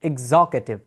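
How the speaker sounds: executive drawn out as "eg-ZOK-e-tiv"; correct pronunciation. Shown as a demonstration. Teacher repeating it for learners, slow executive as "eg-ZOK-e-tiv". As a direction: slowly model executive with stressed ZOK. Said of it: "The correct way to pronounce this word".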